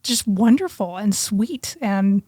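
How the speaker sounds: normal talking voice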